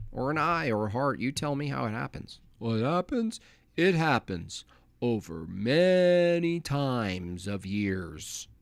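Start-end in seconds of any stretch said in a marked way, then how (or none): 2.6-8.5 mock dopey answer. Mocking evolutionist answer.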